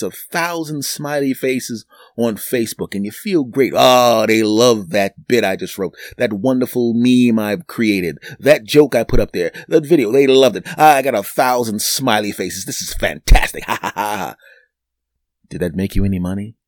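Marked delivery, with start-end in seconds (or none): 3.8-14.4 lightly mock someone proud of likes; smug gloating poster.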